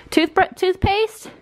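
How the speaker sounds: high, slow, delighted toothpaste; excited question. Real, not acted. Wife greeting her husband's toothpaste find, high and drawn out. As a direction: stretch it out in happy disbelief.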